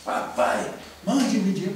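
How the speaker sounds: loud, indignant mock reading; fuming father. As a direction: read it out as a brusque, outraged demand. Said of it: "ele tava fuzilando".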